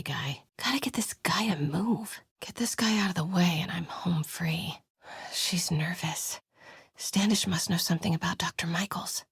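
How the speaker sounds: whispered sneaking thoughts; stealth whisper. Acted. Sneaking into the compound, whispering plans to herself. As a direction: keep it under your breath while sneaking.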